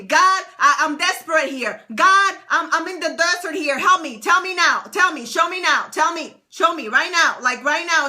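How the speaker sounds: pushy, insistent pleading; mock impatient prayer; belligerent demand. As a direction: demand answers from God right now. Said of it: "belligerent with God".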